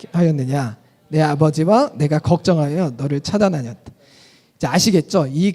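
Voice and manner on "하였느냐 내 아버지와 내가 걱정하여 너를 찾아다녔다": congregation reading together. Shown as a demonstration. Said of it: "시작".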